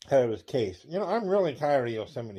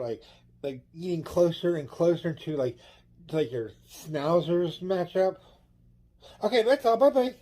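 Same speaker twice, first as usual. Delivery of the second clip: a lightly raised, eager caller voice; excited caller voice, pitched up at the start; caller one; 3 semitones higher than usual. Acted. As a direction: play a chatty caller phoning in. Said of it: "let's do line number one".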